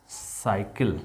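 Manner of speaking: "साइकिल" starting with clear S, pitched level; pronunciation demo. Shown as a demonstration. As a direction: model "साइकिल" with C as S. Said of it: "इसका भी उच्चारण स होगा".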